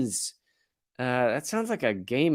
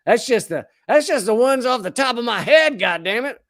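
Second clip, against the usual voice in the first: raised, high-pitched exasperation; exasperated outburst; 7 semitones higher, 4 dB louder than usual. Real, not acted. Host capping a list of abuses, exasperated outburst. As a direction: let frustration burst out louder.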